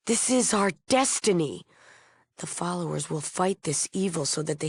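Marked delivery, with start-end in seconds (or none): 0.1-1.6 higher, emphatic declaration; fervent conviction. Acted. Leader declares the group's mission.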